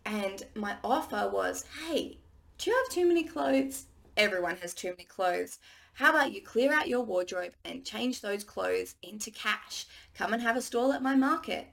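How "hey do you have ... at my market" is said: upbeat sales pitch. Pretend. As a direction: pitch it like an eager market host. Pitching her market offer.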